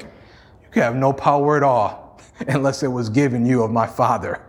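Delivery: Jesus with shades on, answering Pilate coolly; cool and unbothered. Retold or imitated. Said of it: "Jesus put on his shades again".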